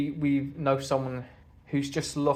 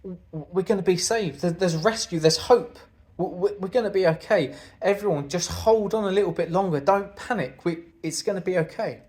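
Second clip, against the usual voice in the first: raised, urgent calling out, stammering with joy; excited rescue call; 4 semitones higher, 3 dB louder than usual. Pretend. Passenger on a sinking ship calling to everyone, overjoyed. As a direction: shout hope to the sinking ship. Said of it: "screaming and shouting at the top of your voice".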